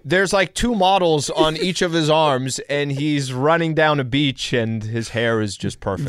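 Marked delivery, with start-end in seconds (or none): 0.0-2.1 much higher, eager comic setup; excited reveal. Acted. Co-host returning to the after-picture joke, excited. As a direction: pitch it way up for the reveal.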